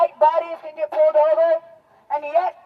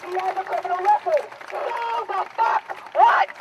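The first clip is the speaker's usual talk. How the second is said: indignant; 4 semitones higher than usual. Real, not acted. Angry retort to excuses.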